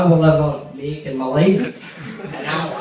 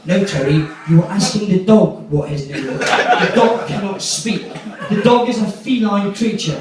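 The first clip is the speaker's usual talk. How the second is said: posh mate; 3 semitones higher than usual. Retold or imitated. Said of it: "my posh mate, Phil. Very posh".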